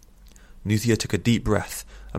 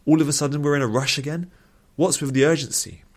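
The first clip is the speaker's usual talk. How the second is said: exasperated questioning; 7 semitones higher, 4 dB louder than usual. A narrator's reading. Sceptical companion questions the rush.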